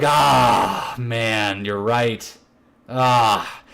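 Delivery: acted-out deflated admission; resigned concession. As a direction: give in reluctantly, sinking in pitch. Friend acted conceding the point.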